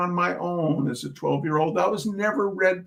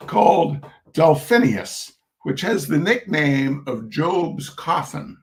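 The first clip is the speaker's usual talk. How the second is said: measured reading-aloud voice for an audience; story narration. Acted. Reading a humorous essay to an audience, storyteller narration. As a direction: read the essay out with dry humor.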